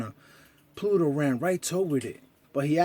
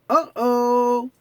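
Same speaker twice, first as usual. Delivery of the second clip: worried uh-oh; 8 semitones higher, 5 dB louder than usual. Acted. Mickey realizes a gift missing.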